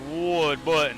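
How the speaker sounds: lightly imitated thick Southern accent; a hint of a thick Southern accent; Ward Burton. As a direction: draw the name out in a Southern drawl. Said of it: "he just sounds like he struggles to talk".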